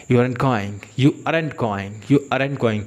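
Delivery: "aren't" clipped and rushed, English style; English speaker imitation. Teacher contrasting English speakers with Indians. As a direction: rush the words together like an Englishman. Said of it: "लेकिन वो लोग कैसे बोलते हैं".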